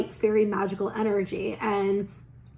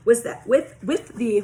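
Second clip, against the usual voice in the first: tongue tripping, slight lisp; stumbling over words with a lisp; 3 dB louder than usual. Real, not acted. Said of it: "I can't fucking talk. I sound like I have a lisp".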